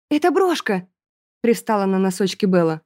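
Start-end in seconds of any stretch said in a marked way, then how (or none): 0.1-0.9 higher, quick cover-up; lightly voiced girl. A narrator's reading. Bella hiding the salamander, high innocent fib.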